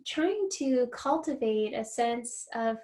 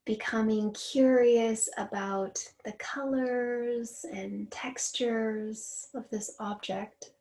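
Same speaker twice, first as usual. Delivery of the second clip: guided meditation. Real, not acted. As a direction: lead a mindful noticing exercise, unhurried and steady. Leads a grounding exercise.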